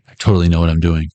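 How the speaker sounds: breezy, fast false confidence; fake confidence. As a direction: rattle it off as if sure of yourself. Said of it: "Not for real".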